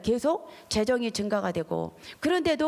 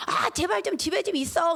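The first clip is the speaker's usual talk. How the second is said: higher, pleading exasperation; exasperated husband; 8 semitones higher than usual. Retold or imitated. Husband begging his clingy wife to stay home, exasperated. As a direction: sound fed up and begging.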